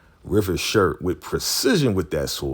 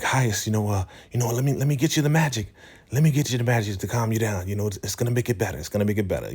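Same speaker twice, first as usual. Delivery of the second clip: fast, higher-pitched pleading; mock begging; 5 semitones higher, much faster than usual. River offers the magic to calm the highest, hurried mock pleading. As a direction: imitate a hurried attempt to placate. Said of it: "River's begging for his life".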